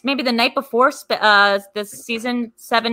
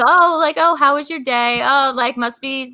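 mock fake pleasantries; 3 semitones higher than usual.

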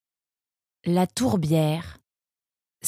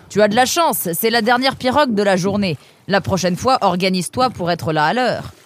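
a gruff ferryman scolding, raised pitch; lightly voiced boatman; 4 semitones higher, 4 dB louder than usual. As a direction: tell the latecomer off, half friendly. Boatman character dialogue.

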